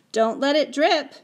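a touch of motherly instruction; mother's caution. Acted. Mother handing her son a spoonful, light caution.

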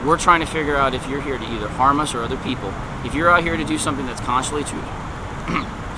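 losing his voice, hoarse and strained. Real, not acted. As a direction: talk through a hoarse, worn-out throat. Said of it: "I'm losing my voice".

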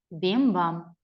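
бім-бам whispered, fading like a distant bell; whispered bell echo. Shown as a demonstration. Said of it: "Кличе дзвіночок".

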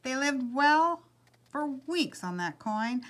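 animated, projected storyteller voice; lively picture-book reading; story narration. A narrator's reading. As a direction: read it aloud to an audience, lifting key phrases. Story read to listeners.

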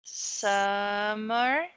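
"summer" split into slow syllables. Shown as a demonstration. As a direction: model "summer" slowly, syllable by syllable. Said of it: "É sílaba por sílaba".

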